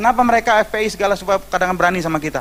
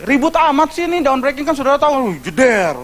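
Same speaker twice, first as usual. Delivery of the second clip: mock complaining neighbour; 7 semitones higher than usual. Neighbour griping about church noise, mock whiny complaint. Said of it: "komplain-komplain gini".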